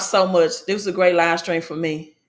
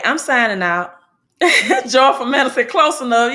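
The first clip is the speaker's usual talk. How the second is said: laughing through the words, a little louder; laughing sign-off; 4 semitones higher, 4 dB louder than usual. Real, not acted. Streamer laughs, signing off and reading a viewer's name, laughing. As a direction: giggle while reading the name. Laughing at her own slip.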